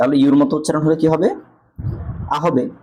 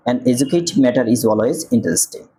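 slow corrected reading; much slower than usual. Shown as a demonstration. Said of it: "এন হয়".

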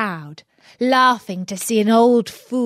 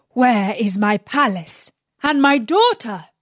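louder, accusing demand; angry accusation; 5 dB louder than usual. Acted. Sultan accusing Aladdin of losing the palace, angry and louder. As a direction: confront him with rising anger. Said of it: "said the Sultan".

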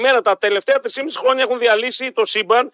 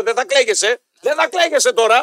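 higher, insistent mock telling-off; retold firm scolding; 3 semitones higher than usual. Host retelling how they scold regretful voters, firm and insistent. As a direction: lay down the law, rising in pitch.

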